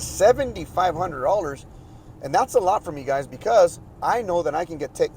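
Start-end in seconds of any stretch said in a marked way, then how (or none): 0.0-1.6 slow, disbelieving repeat of the price; incredulous echo. Retold or imitated. Homeowner hearing an outrageous septic fee, slow disbelief. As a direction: echo the number like you can't believe it. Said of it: "I was like".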